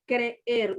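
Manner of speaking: creer slowly with a small pause between e's; right way. Shown as a demonstration. Teacher slowly modelling creer with a pause. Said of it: "Usted hace una pequeña pausa".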